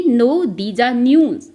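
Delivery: very slow, word by word for the class; slow dictation. Shown as a demonstration. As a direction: spell it out slowly so students can follow. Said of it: "तो हम क्या बोलेंगे?". (धीमे-धीमे, शब्द-दर-शब्द बोलना)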